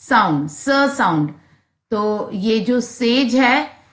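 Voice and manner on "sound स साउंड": स said as a clear hissing s; s sound. Shown as a demonstration. Teacher demonstrating the s sound in स to pupils. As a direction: stretch the s in स so pupils hear it. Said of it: "the letter S has a sound".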